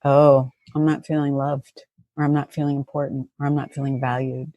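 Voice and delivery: realizing the hurt under her anger. Retold or imitated. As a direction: gently admit the hurt underneath. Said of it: "I'm just like".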